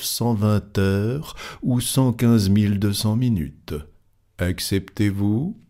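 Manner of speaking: lightly voiced, measured wager; composed gentleman. Fogg puts his bet to the club, composed and deliberate.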